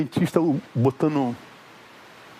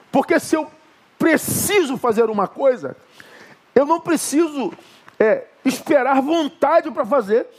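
raised, impassioned sermon voice; fervent preaching; 4 semitones higher than usual. Acted. Pastor urging the congregation against discouragement, fervent preaching. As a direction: preach it out to the whole church.

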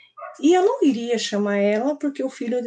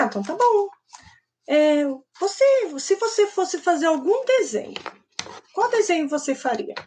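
higher, lilting teacher's coaxing; retold gentle persuasion in a raised pitch; coaxing a child; 7 semitones higher than usual. Teacher offers a drawing to the refusing boy, coaxing.

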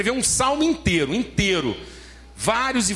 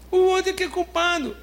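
much higher, mocking voice of someone blaming others; mocking blame-shifter; 9 semitones higher than usual. Preacher mocks believers who blame others, high mocking voice. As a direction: play the self-excusing accuser, pointing away.

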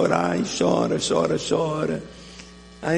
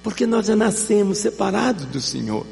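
fervent preaching; 6 semitones higher than usual. Acted. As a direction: build the sermon with rising fire. Prega com força crescente. (pregação fervorosa, mais aguda e forte)

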